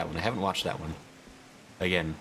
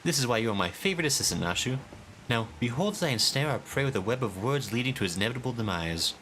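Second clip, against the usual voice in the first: grand, theatrical inspector, higher and proud; pompous detective voice; 4 semitones higher than usual. Acted. Streamer voicing the inspector to his assistant, pompous and grand. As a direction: declaim like a self-important sleuth.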